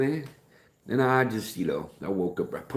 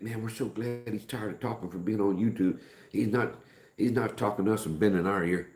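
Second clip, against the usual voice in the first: relieved family; 5 semitones higher than usual. Retold or imitated. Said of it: "they're probably think".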